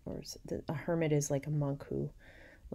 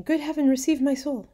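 high, loud theatrical plea; dying cry; 11 semitones higher, 9 dB louder than usual. A narrator's reading. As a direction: cry to heaven as you sink. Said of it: "cried Matilda, sinking".

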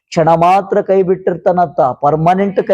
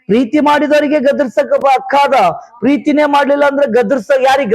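raised, insistent sermon voice; fervent preaching; 6 semitones higher than usual. Real, not acted. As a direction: exhort the congregation in short, driving phrases.

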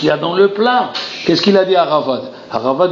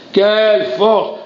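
slow and pitched higher, building awe; rising exclamation; 6 semitones higher, much slower than usual. Acted. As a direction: lift the second one up in wonder.

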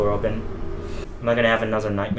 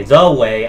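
The leaned on hard and louder; stress on THE; 2 semitones lower, 6 dB louder than usual. Acted. Diary writer correcting himself about the exit, stress on "The". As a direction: punch "The" as the one and only.

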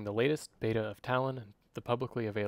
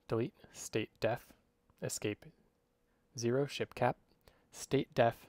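clipped voice commands spoken in quick bursts; fast dictation. Shown as a demonstration. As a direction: rattle off code commands like dictating to a computer. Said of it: "with a pretty fast voice".

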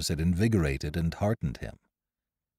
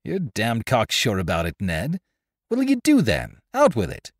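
a touch of irritation, rising sharply at the end; irritated; 4 semitones higher, 3 dB louder than usual. Acted. George presses Ned for his plan, irritated. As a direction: push back at his cocksure calm. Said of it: "His tone of confidence irritated me".

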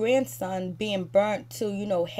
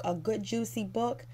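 disbelieving, softer repeat of "juicy book"; quoting "juicy book" back with contempt; incredulous echo; 5 dB quieter than usual. Real, not acted.

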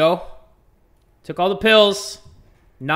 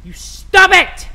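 high, loud, drawn-out telling-off; shouted mock reprimand; mock scolding; 10 semitones higher, 7 dB louder, slower than usual. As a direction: explode into a parental scolding. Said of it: "Had to scold my third child".

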